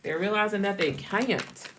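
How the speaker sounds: slow southern drawl, "can't" in two syllables; southern accent. Shown as a demonstration. Reader showing how she said can't, southern accent. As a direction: draw "can't" out like "kai-unt", southern style. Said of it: "the way I was saying can't".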